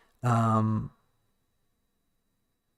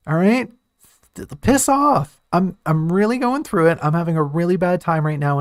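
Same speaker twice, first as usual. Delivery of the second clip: much higher, louder snapping rant; snarly; 4 semitones higher, 4 dB louder than usual. Retold or imitated. Teal snapping at the pilgrim who jostled her, angry snarl. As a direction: lash out at the stranger who shook her. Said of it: "No, her first reaction is gonna be".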